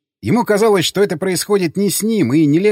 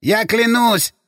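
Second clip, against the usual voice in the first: nasal whine; 6 semitones higher, slower than usual. A narrator's reading. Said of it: "прогнусавил Ашот Гургенович".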